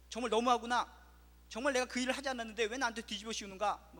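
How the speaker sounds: 크게 터뜨리는 억울한 분노; 억울해서 목소리를 높여 따지듯. Retold or imitated. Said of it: "화를 냅니다". (억울한 사람이 화내며 외치는, 큰 목소리)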